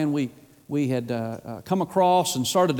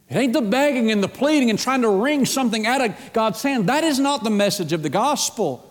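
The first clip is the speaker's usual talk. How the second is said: higher-pitched, forceful sermon cadence; impassioned preaching; 5 semitones higher than usual. Real, not acted. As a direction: drive it home, building through repeated phrases.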